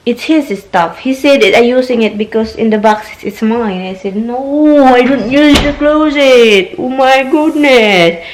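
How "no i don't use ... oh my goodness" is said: higher, drawn-out mock protest; slow, playfully exasperated objection; exasperated retort. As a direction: stretch out the complaint, pitched up. Acted quarrel with husband retold.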